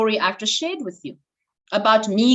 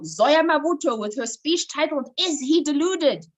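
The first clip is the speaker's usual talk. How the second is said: slow, higher, drawn-out announcer call; mock MC announcement; 5 semitones higher than usual. Imitating the MC introducing her speech title, a slow, higher drawn-out announcement. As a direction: stretch the title out like an MC on stage.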